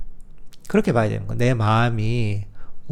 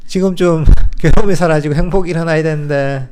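mock impatient, louder and higher; impatient frustration; 3 semitones higher, 4 dB louder than usual. Meditator grumbling that happiness hasn't come yet, mock impatient. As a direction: whine that the results should be here.

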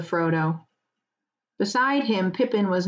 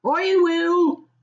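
gruff farmer, much higher and a bit louder; farmer's brief reply; 11 semitones higher, 4 dB louder than usual. Acted. Farmer answers his wife leaving, short rustic reply. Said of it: "said he".

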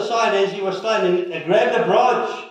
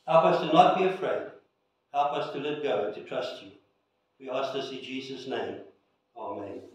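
closing prayer; 3 semitones lower than usual. Acted. Pastor praying over the congregation, earnest and softening. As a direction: pray for the people, sinking gently toward the end.

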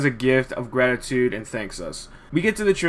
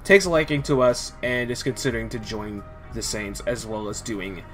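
emotionally drained. Real, not acted. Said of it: "why I sound so drained".

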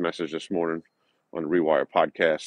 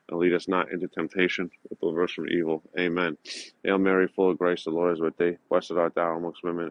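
steady, even recited prayer; prayer recital. Acted. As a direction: recite the prayers in one reverent flow.

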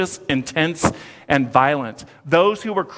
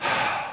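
weary sigh; 7 dB quieter than usual. Retold or imitated. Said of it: "It's like Jesus says".

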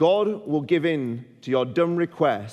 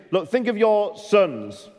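pleading prophet; 3 semitones higher than usual. Retold or imitated. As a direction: urge them to think of their sons. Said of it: "It's as if Samuel says".

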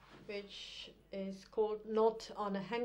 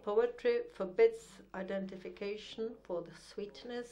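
deliberate, formal verse recital; measured poetry-reading cadence with set pauses; poem reading. Acted. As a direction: recite it as a poem, weighing each phrase. Reads a poem aloud.

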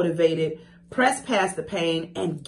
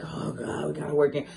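grumpy grumbling; 2 semitones lower than usual. Retold or imitated. Coach mimicking herself arriving at a workout, grumpy. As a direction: grumble it under your voice, dreading the task. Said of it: "being grumpy".

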